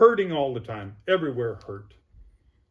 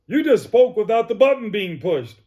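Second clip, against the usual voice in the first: higher, louder astonished exclamation; amazed; 8 semitones higher, 9 dB louder than usual. Retold or imitated. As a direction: blurt it out in disbelief. Therapist amazed at patient speaking.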